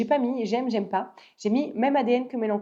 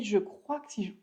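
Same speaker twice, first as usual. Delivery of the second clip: talking through hiccups; hiccuping. Real, not acted. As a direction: hiccups breaking the words. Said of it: "j'ai le hoquet".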